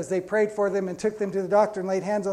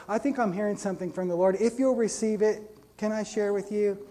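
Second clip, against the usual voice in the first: gentle; 2 semitones higher than usual. Retold or imitated. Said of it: "Just so gentle".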